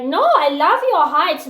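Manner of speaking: mock adoring reassurance. Acting boyfriend reassuring tall woman.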